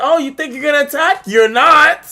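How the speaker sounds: high, loud, quick taunt; mad sassy. Retold or imitated. Kid mocking his opponent's attack, mad sassy. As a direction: taunt loudly way up high, full of sass. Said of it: "I'm being mad sassy".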